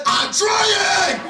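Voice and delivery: high-pitched yell back; exasperated acted shout. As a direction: shout back at the heckler next to you. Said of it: "I'm gonna be acting out two parts".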